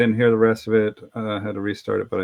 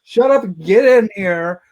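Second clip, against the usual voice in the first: yelling; 6 semitones higher than usual. Retold or imitated. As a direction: order the kids to sit down. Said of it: "I'm like yelling at their kids".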